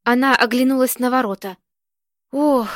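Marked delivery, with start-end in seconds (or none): 2.3-2.7 a short groaning "Ох". A narrator's reading. Old woman clutching her heart, groaning "Ох". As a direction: let out a pained little groan. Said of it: "простонала женщина".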